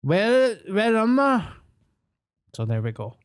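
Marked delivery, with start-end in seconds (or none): 0.0-1.5 dazed confusion. Retold or imitated. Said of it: "And I'm like".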